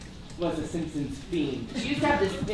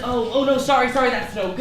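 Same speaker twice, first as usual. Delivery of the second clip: quoting Sideshow Bob; 4 semitones higher, 5 dB louder, faster than usual. Retold or imitated. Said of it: "then Sideshow Bob says".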